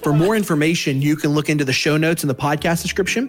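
steady, upbeat announcer read; podcast outro. Acted. Host closing the episode for listeners, announcer read. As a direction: sign off the show like an ad.

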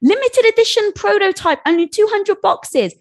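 high-pitched hyped promo voice; excited mock sales pitch; big announcement. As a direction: announce it like a hot limited drop. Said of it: "We make this big announcement on Facebook".

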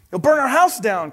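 mother shouting at the father dragon; alarmed cry. Acted. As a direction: cry out at her husband. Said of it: "cried his mother".

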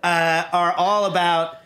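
coughing through the words; talking while choking a bit; choking on a drink. Real, not acted. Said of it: "excuse me, God's choking me".

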